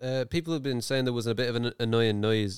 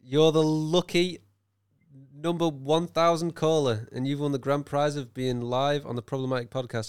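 drawn-out, pitched-up game show host; mock radio host; 2 semitones higher than usual. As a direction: announce a big competition winner with mock grandeur. Mock radio prize announcement to caller.

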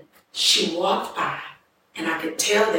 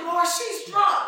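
laughing prayer; 9 semitones higher, slower than usual. Retold or imitated. Praying in disbelief.

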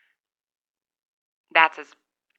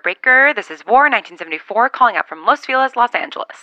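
over walkie talkie; 4 semitones higher, 6 dB louder than usual. Pretend. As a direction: announce it like a CB radio call. Radio call sign-off.

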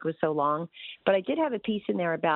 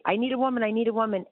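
lightly voiced frat boy at a keg party; a hint of a rowdy frat boy chant; rowdy party animal; 3 semitones higher, faster than usual. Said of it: "He sounded like a frat boy at the end of a keg party".

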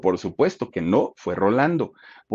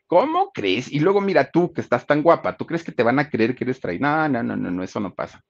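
mocking; 4 semitones higher than usual.

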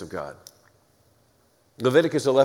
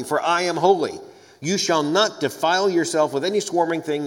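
measured, weighty reading of scripture. Acted. Lecturer reading Leviticus to his class, solemn scripture reading. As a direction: read the law aloud with gravity.

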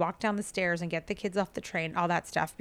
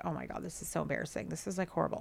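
embarrassed mutter; 6 dB quieter, faster than usual. Retold or imitated. Embarrassed aside about stolen croissants.

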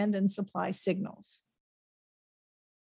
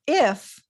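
"if" punched, a touch higher and louder; stress on if; 3 semitones higher, 3 dB louder than usual. Shown as a demonstration. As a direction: lean into "if" as the key condition. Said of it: "and underscore if".

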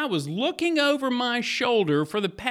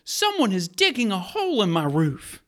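story narration. Acted. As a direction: draw the listener into the scene. Retells Bible story over music.

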